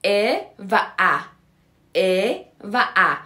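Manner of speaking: ا و ا drawn out as two distinct vowels, "e" and "a"; teacher's slow demo of ا و ا, "e" versus "a"; two vowel sounds. Shown as a demonstration. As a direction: slowly contrast ا و ا: closer e, then opener æ. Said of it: "یه حرف دیگه داریم چیه که دو تا صدا داره".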